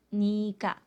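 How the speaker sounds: nika said as nee-ka, with a clear k sound; pronunciation model. Shown as a demonstration. Teacher shows how students pronounce the written word, nika. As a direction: give nika crisply as nee-ka. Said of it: "pero se pronuncia".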